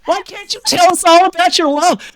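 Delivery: high, loud hammed-up American; American accent. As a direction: coax her in an exaggerated American voice. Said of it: "Is that you as an American?".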